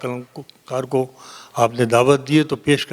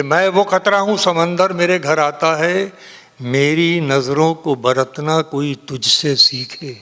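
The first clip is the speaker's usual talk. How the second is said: measured mushaira recital with long pauses; poetry recitation; 2 semitones higher, slower than usual. Acted. Poet reciting a couplet to a mushaira audience, declaimed. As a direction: recite the verse phrase by phrase.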